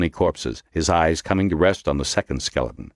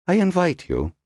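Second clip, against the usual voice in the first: pleasantly; 13 semitones higher than usual. A narrator's reading. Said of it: "he said pleasantly".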